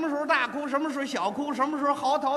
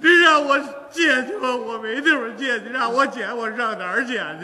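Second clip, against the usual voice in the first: fake crying; 5 dB louder than usual. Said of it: "这就哭上了".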